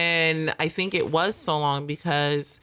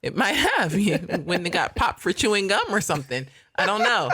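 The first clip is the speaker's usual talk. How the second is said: higher, amused and laughing; 5 semitones higher than usual. Real, not acted. Co-host joking about childhood trouble in church, laughing. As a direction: let real laughter lift the words. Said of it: "I'm only laughing because".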